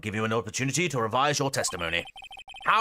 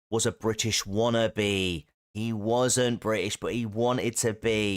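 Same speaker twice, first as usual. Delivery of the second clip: slow emphatic explanation; 4 semitones lower, slower than usual. Pretend. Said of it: "emphatic explanation".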